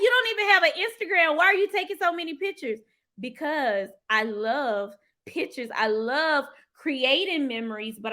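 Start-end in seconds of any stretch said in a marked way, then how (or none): 0.0-2.8 quoting friend. Retold or imitated. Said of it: "She was like".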